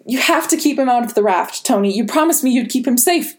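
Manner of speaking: high, tense, desperate voice; distraught pleading. Acted. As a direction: beg him, close to breaking. May pleading with Tony, distraught.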